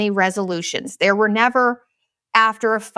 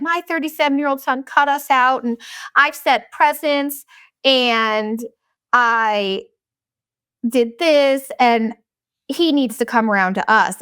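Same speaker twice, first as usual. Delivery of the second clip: "he needs to come around to us" with a hint of a self-righteous parent; quoting a maga parent; 3 semitones higher than usual. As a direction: read a little higher, in a light put-on parent voice. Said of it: "it was like".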